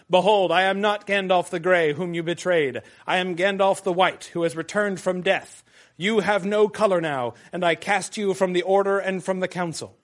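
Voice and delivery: powerful, authoritative. Acted. Gandalf casting out Saruman, voice growing in authority. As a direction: let the voice swell with power. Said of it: "his voice grew in power and authority".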